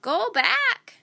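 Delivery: put-on a parrot warns the children; squawked. A narrator's reading. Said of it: "she squawked".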